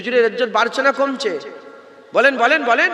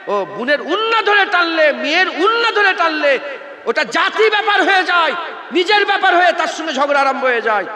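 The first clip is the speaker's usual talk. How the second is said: fiery shouting; 6 semitones higher, 3 dB louder than usual. Real, not acted. Preacher shouting at the crowd about insults to the Prophet. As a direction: preach it at full shout, higher and louder.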